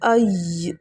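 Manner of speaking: ای cut off firmly with a slight jolt; ای with a forceful stop; hard stop. Shown as a demonstration. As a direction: stop ای sharply. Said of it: "تھوڑی سی سختی سے آواز آئے گی".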